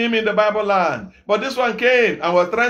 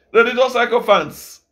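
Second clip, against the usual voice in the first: louder, punched religious sycophants; louder repeat. Shown as a demonstration. Preacher repeats his insult to the crowd, louder. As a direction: hit religious harder the second time.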